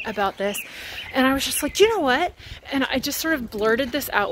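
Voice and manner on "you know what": sudden outburst. Retold or imitated. Retelling sudden outburst on phone.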